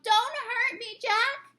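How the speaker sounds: high desperate plea; terrified. Acted. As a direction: beg in panic. Giant pleading in nightmare.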